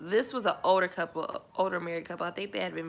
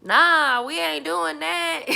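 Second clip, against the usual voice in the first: loud, high, slow refusal breaking into a laugh; loud laughing nah; 9 semitones higher, 13 dB louder, much slower than usual. Retold or imitated. To the older couple in class, a loud laughing refusal. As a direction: shout it out and laugh. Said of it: "And I was just like".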